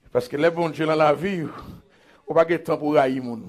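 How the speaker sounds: soft, low confiding voice; hushed preaching. Real, not acted. Preacher advising church against hating people, hushed and low. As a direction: keep it down and intimate.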